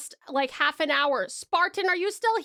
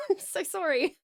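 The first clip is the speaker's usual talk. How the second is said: laughing apology; 4 semitones higher than usual. Real, not acted. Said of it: "Thank you so much for your patience".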